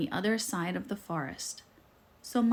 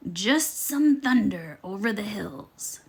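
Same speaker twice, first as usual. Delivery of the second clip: a hint of a sly wolf fibbing; lightly voiced sneaky wolf. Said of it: "said the sneaky, hungry wolf".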